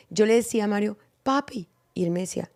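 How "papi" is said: a lightly serious "Papi", falling at the end; mild serious-talk warning on "Papi". Retold or imitated. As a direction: call out "Papi" like a talk is coming. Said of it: "el tono de cuando uno se pone serio".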